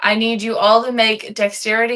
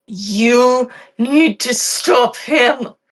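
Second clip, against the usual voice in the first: forced through gritted teeth, drawn-out "you"; 3 dB louder than usual. Narrating a game, voicing a badly injured woman who looks up at you: through gritted teeth. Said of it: "through gritted teeth says".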